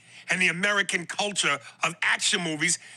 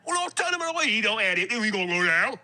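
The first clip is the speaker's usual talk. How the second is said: mock British accent. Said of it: "I go".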